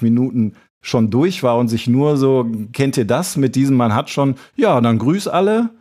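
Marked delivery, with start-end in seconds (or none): 4.5-5.7 a lilting, higher "say hi to everyone" as if ending a call; light sing-song sign-off; mock phone goodbye. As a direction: play the sister stretching out the goodbye. Mimicking a long phone goodbye.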